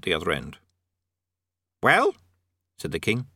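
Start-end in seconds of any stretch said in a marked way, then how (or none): 1.8-2.1 loud, high impatient call; impatient demand. A narrator's reading. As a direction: bark it down the tube. Impatient king.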